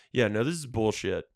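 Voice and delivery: calling out the scammer; retold angry rant. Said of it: "retold phone call with scammer".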